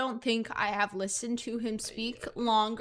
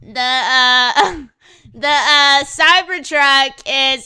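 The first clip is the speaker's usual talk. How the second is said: louder and slow, stumbling over each 'uh'; hammed-up halting billionaire boasting about his truck; Elon Musk impression; 2 semitones higher, 11 dB louder, slower than usual. Podcast bit, a loud, slow mock Elon voice. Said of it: "let me do my best Elon Musk impression".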